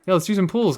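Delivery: hammed-up Midwestern "pools"; mock Midwestern pools. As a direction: tease the Midwestern "pools" in a high voice. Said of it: "You say pull like pool".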